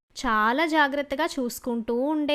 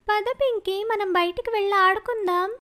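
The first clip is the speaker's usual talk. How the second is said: put-on higher girl's voice, inviting; cheerful older sister; 6 semitones higher than usual. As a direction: call your little sister out to play.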